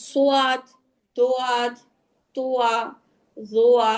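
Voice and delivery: সোয়াদ and দোয়াদ with an audible w glide; two-part vowel in তোয়া, জোয়া; split "wa" letter names. Shown as a demonstration. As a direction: say "so-waad", "do-waad", glide and open "aa". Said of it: "এভাবে কেউ বলবেন না".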